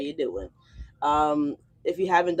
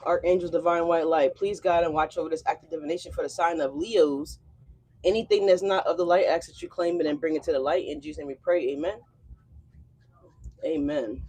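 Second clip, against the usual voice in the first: calm, steady prayer voice. Acted. Reader praying to archangels before the Leo reading, calm prayer voice. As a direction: pray over the reading earnestly.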